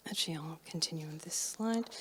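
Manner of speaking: quick whispered aside; whispering. Real, not acted. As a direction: whisper it to yourself. Aside to self mid-talk.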